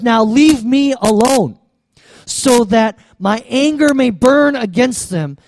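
slow, forceful command, stretched words; stern God voice. Retold or imitated. God angrily orders Moses to back off, stern and emphatic. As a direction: press each word out with mild anger.

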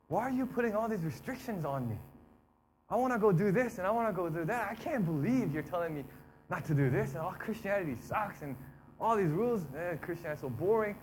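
mock whining protest to God; resentful complaint. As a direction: gripe like a fed-up believer. Acts out resentful believer questioning God.

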